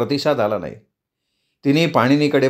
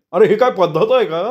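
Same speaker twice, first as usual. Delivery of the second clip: higher, louder, scolding question; irritated demand; 6 semitones higher, 3 dB louder than usual. A narrator's reading. Marudgan scolds the intruders, irritated. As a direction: scold their manners. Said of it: "मरुद्गण चिडून म्हणाला".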